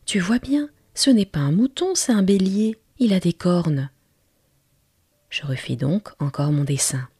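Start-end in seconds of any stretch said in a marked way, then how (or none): 0.1-3.9 put-on a small boy begging for a sheep, lifted and hushed; little prince's voice. The little prince begs the pilot for a sheep, in a higher childlike voice.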